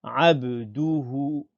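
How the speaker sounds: abduhu with du stretched too long; dragged du. Shown as a demonstration. Teacher showing what not to say, abduhu with long du. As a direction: drag out the du of abduhu. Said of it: "On ne tire pas sur du".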